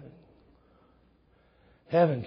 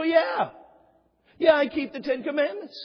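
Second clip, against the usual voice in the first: confident congregant; 10 semitones higher, 4 dB louder than usual. Retold or imitated.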